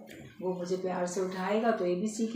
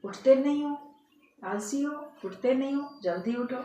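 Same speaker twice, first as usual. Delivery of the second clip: higher, impatient mock telling-off; scolding; 4 semitones higher, 3 dB louder than usual. Parrot berating master who won't get up, scolding. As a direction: nag a sleeper out of bed, playacted. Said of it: "ऐसे वो बोलने लगा है तोता तो".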